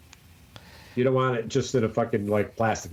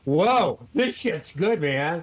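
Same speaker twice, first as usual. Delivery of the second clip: quoted awe, a bit higher; excited; 4 semitones higher, much slower than usual. Retold or imitated. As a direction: retell your excited first sip. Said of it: "No, I said".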